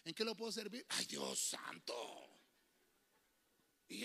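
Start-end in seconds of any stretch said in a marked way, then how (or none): 0.0-2.3 mocking effeminate cashier. Mock cashier and reaction.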